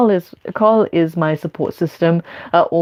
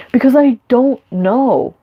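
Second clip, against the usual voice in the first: anxious spiraling; 2 semitones higher than usual. Retold or imitated. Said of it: "And I was like".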